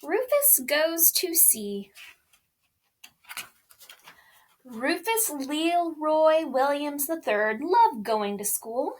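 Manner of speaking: put-on lively storybook reading for children; reading a picture book aloud. A narrator's reading. Mom reading Rufus Goes to Sea to children, bright storytelling voice. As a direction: read it like bedtime story time for kids.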